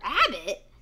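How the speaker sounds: a touch of sly confusion; puzzled fox. A narrator's reading. Fox thinking to himself, puzzled. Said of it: "thought the fox".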